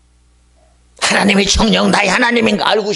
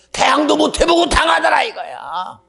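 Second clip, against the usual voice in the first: preaching shout; 8 semitones higher than usual. Acted. Preaching climax.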